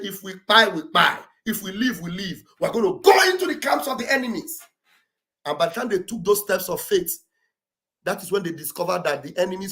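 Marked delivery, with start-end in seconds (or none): 0.0-4.6 lepers' bold resolve. Retold or imitated. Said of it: "They rose up and said".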